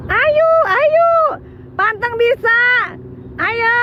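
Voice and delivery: high, urging cheer. Real, not acted. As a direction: egg them on from the sidelines. Cheering on someone climbing. (menyemangati dengan nada tinggi)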